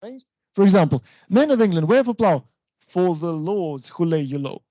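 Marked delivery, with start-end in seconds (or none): 1.3-4.6 MEN and WHEREFORE punched, FOR THE passed over lightly; verse stresses. Shown as a demonstration. Teacher quoting verse to show a pyrrhic, strongly metred recitation. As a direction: recite emphatically, then ease into LORDS. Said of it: "both of them are unstressed".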